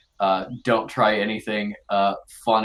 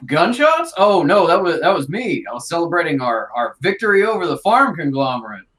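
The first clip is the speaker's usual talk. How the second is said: slug villager covering up; 5 semitones higher, 3 dB louder, faster than usual. Acted. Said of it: "one of the slug villagers is like".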